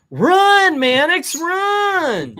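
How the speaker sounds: high, loud pleading call; pleading cry. Acted. Jenny urging Mannix to escape, in a high pleading cry. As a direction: cry out after him, begging him to run.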